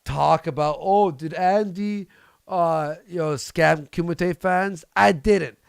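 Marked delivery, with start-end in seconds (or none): 0.8-4.8 slow, drawn-out mocking question; parroting the rumor with a sneer; mock gossip. Streamer mocking rumors that he scammed fans, slow sneering.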